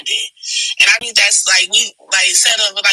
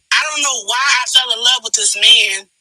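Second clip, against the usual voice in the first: breathless, pushing the words out; out of breath. Real, not acted. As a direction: talk while short of breath. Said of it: "I'm out of breath".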